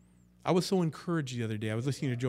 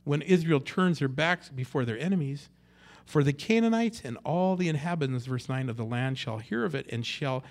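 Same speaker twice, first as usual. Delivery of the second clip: impassioned prayer; 6 dB louder than usual. Acted. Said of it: "Verse eight".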